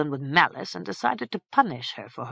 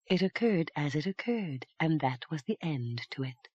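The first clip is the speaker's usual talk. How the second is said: softer, deflated dismissal; crestfallen; 7 dB quieter than usual. A narrator's reading. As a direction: close the subject glumly. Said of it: "now crestfallen".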